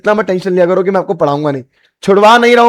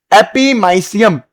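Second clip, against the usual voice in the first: slowed, spread-out syllables; slow repetition; much slower than usual. Shown as a demonstration. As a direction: say the term slowly for students. Teacher repeats new term slowly. (धीरे-धीरे दोहराते हुए)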